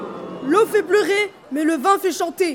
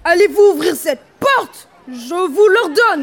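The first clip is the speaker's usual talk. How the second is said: loud demand; 4 dB louder than usual. Acted. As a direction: order them through the door. Husband bangs on the door.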